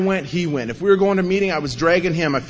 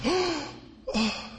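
mock shocked oh; 12 semitones higher, 8 dB quieter than usual. Old timers shocked at his remark.

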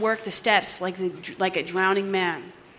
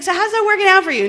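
mock ironic sponsor; 11 semitones higher, 6 dB louder, faster than usual. Sponsor's ironic question, mimicked.

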